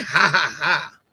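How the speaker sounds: low, forced mock laugh; crazy solo laugh. Telling a chatter not to write laughs, mock laughing. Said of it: "you sound like you're laughing by yourself".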